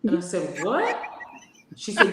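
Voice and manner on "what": shocked what. Retold or imitated. Shocked reply in quarrel.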